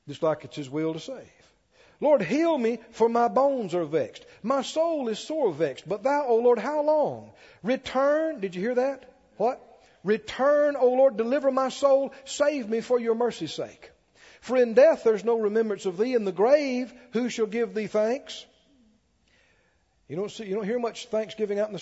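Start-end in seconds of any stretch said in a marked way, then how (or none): 2.0-8.4 raised, emphatic psalm reading; fervent declaimed prayer from scripture; preaching scripture reading. Real, not acted. Reads the psalm out forcefully. 10.0-18.4 raised, emphatic psalm reading; fervent declaimed prayer from scripture; preaching scripture reading. Real, not acted. Reads the psalm out forcefully.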